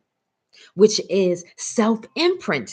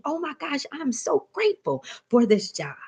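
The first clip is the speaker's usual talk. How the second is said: high, breathless thank-you; gushing over a new job, pitched up; gushing gratitude; 7 semitones higher than usual. Acted. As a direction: overflow with gratitude. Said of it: "You must be thinking".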